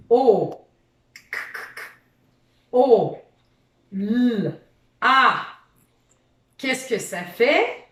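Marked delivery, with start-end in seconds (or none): 0.1-5.4 letters sung out one by one, louder; teacher sounds out chocolat for the child, each letter sung; sounding out letters. Shown as a demonstration. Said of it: "on fait chanter nos alphas".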